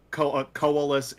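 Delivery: "koalas" begun on a separate "ko"; variant pronunciation. Shown as a demonstration. Fan listing pronunciations they've heard, variant "koalas" led by "ko". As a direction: hesitate on "ko", then say "koalas" in full. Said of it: "so many different pronunciations".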